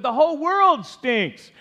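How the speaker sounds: high, loud, drawn-out holler; loudest mock shout. Preacher playing grandpa charging onto the porch, hammed-up full shout. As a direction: proclaim it like an outraged grandpa, hammed up and slow. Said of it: "shouted as loud as he could".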